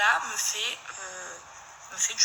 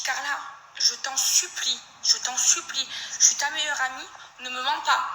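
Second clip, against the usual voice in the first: higher, begging through tears; tearful pleading; 3 semitones higher than usual. Retold or imitated. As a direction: plead with your best friend not to lie. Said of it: "Je commence à pleurer au téléphone". (supplication au bord des larmes, voix plus aiguë)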